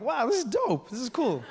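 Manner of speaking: high, impressed reaction; delighted spectator. Retold or imitated. Acts out his own delight.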